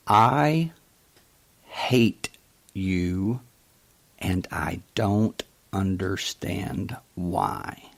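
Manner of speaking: imitating a man near tears, words forced through gritted teeth; a mild retelling of a choked, teary confession, slowing at the end. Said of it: "with tears in his eyes, and he was gritting his teeth".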